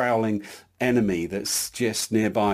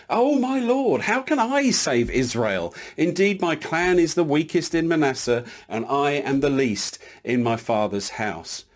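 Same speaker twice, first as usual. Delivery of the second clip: mildly acted protest of unworthiness; Gideon, self-doubting; 3 semitones higher than usual. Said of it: "He had very low self-esteem".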